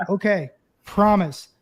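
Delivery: slow, dry mock agreement; sarcastic promise. Catcher mockingly promising the umpire, slow and dry. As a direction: drag it out, deadpan sarcastic.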